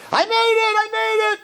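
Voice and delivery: hammed-up victory scream; retold screaming. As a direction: shout it like you just won. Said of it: "He was running around screaming".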